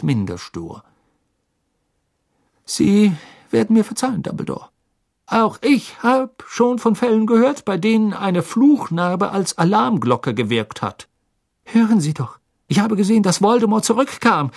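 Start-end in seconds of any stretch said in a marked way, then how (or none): 2.7-11.1 higher, louder, stubborn retort; stubborn minister. Acted. Minister stubbornly rebuffs Dumbledore, higher and louder. 11.6-14.5 put-on urgent, louder and higher boy's cry; called out. Harry from his bed calls out to the minister, louder. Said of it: "rief Harry".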